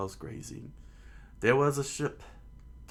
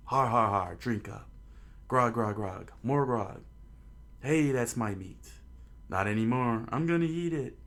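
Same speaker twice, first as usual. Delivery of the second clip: rowdy pirates. Acted. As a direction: bellow it like drunk sailors at a feast. Rowdy pirate crew feast.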